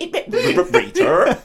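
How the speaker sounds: high, rolled stuttering catchphrase; Fred Elliott. Retold or imitated. Showing co-host what the soap character did, high stuttering imitation. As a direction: trill into the name, hammed-up. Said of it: "That's what he did".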